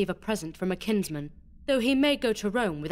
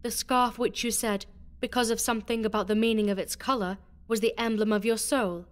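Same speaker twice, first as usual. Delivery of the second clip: high, feigned innocent regret; innocent disappointment; 13 semitones higher than usual. Acted. Beatrice to Alonso, with feigned innocent disappointment. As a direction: play sweetly let down, all sham. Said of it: "innocent air of disappointment".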